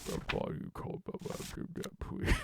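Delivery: gruff start fading to mumbles; gruff voice trailing to mumbling. Retold or imitated. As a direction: let it sink into mumbling. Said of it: "just mumbling".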